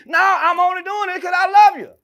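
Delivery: hammed-up stern parent; mock shouting parent. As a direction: yell it like a parent with a belt.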